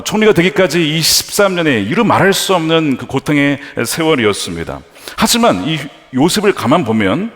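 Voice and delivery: ordinary talk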